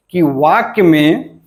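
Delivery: slow, spaced dictation with rising ends. Shown as a demonstration. Teacher dictating the definition slowly to students. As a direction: dictate each phrase slowly for notes. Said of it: "teacher dictating definition slowly".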